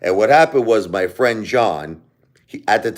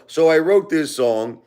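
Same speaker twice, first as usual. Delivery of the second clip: ordinary talk, nothing marked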